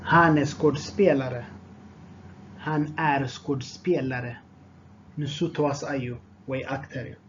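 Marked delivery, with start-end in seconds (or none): 2.7-4.3 measured, each word distinct. Shown as a demonstration. Teacher repeats phrase more slowly.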